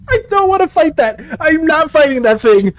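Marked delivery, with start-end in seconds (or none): 0.1-1.2 raised voice of real reluctance; higher-pitched protest. Real, not acted. Streamer refusing to face a monster, higher and insistent. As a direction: protest it higher, at full volume.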